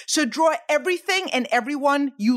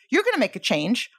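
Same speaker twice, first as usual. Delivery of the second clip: ordinary talk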